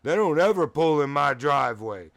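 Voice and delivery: mock-agitated loud telling-off; retold agitated complaint. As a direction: scold a stranger, tripping over "you". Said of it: "he said it just like that".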